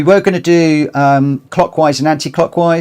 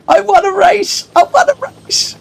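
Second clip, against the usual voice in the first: shrieking jackpot winner. Acted. Celebrating a race win.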